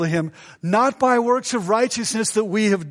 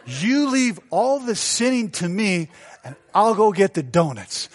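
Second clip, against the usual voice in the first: laughing retelling. Retold or imitated. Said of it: "this is exactly what I said".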